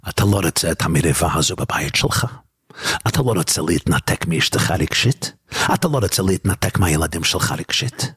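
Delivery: low, even voice of inner counsel; voice of the divine soul. Acted. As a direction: drop well down and question them as the divine soul. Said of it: "ונפש אלוקית יגיד מיד".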